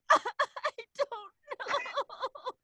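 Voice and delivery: put-on high, very slow drawn-out kid reply; sheepish kid. Retelling her childish answer to the teacher, drawn out. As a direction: stretch it out like a caught child. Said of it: "And I go".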